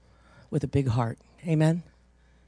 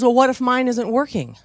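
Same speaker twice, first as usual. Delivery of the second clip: high, louder worried whine; anxious woman's retort; 8 semitones higher, 7 dB louder than usual. Retold or imitated. Fearful traveler retorts to the preacher, high and whiny. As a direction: play the scared woman pushing back.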